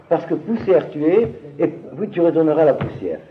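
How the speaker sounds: mildly pious recitation, pitched a little up; sermon pieux. Shown as a demonstration. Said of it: "sermon pieux là-dessus". (ton de sermon pieux, lent)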